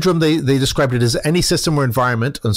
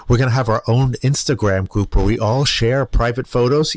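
creepy voice; 2 semitones lower than usual. Retold or imitated. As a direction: make it sound unsettling. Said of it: "the little voice you're putting on".

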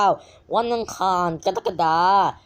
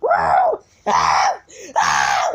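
mock surprise; 5 dB louder than usual. Exaggerated meme reaction shouts.

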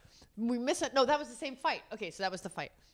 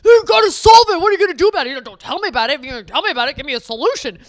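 loud, higher hectoring voice; mock demanding husband; 4 semitones higher, 13 dB louder, faster than usual. Mimicking husband demanding solutions, loud and hectoring. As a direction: lecture her like an impatient husband. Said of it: "And you were like".

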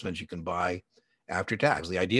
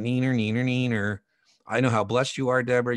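sing-song mock gloat, a bit louder; gloating taunt; 3 semitones higher, 3 dB louder than usual. Teasing his friend Deborah after both made money, singsong gloat. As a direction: tease her like a kid bragging. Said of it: "and then I went".

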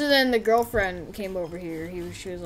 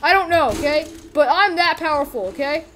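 high, loud defensive character voice; mock-exasperated comeback; Freddy Fazbear; 5 semitones higher, 4 dB louder than usual. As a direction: insist on your power, voice raised. Freddy defends himself, still in character.

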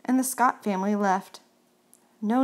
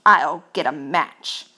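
mouse voice; 6 semitones lower, 6 dB louder, slower than usual. Acted. Mouse voice, eager.

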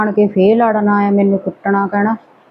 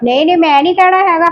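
fast heated refusal; 6 semitones higher, faster than usual. Acted. Wife refusing in quarrel.

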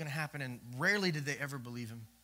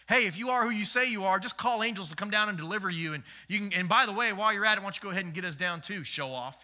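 louder sneering taunt; mocking; 3 semitones higher, 5 dB louder than usual. Thief on the cross mocking Jesus, a touch louder. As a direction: jeer at him like a scoffer. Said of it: "just making fun and mocking him".

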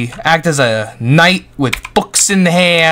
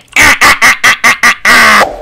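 loud high witchy cackle; witch cackle; 6 semitones higher, 6 dB louder than usual. Acted. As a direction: cackle wickedly.

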